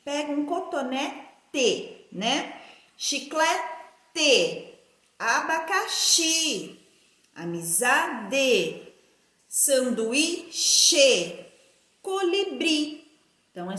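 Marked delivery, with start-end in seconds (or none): 0.5-2.1 "cotonete" split before a clear TE; slow "cotonete" with a separate last syllable; final E as written. Shown as a demonstration. Teacher sounds out final E. 3.0-13.1 slow word list, each last syllable set apart; sounded-out endings. Shown as a demonstration.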